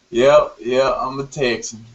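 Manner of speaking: Texan twang; Texan accent. Real, not acted. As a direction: talk like a Texan. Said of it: "With the Texan accent".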